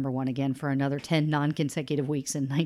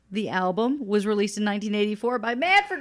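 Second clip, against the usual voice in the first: announcer voice; 6 semitones higher, 3 dB louder than usual. Acted. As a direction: announce it like a stadium host. Grand announcer-style title reading.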